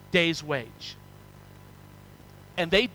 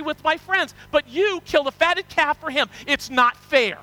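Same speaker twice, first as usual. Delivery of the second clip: put-on furious older brother; 5 semitones higher than usual. Older brother protesting to his father, mildly furious. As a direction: whine out the injustice. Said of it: "he was furious".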